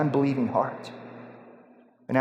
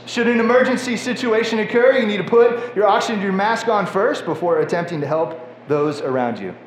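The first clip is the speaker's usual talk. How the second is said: flight attendant voice; 3 semitones higher than usual. Acted. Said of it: "That was the best flight attendant voice that I could muster up".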